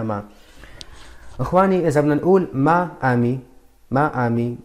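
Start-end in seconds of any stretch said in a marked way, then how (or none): 2.5-4.6 ما آمي said broken apart, ما and آمي separate; choppy wrong way. Shown as a demonstration. Teacher showing students the wrong ما آمي. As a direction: chop ما آمي into two stiff words. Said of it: "مثل كأنه واحد هندي عم يت".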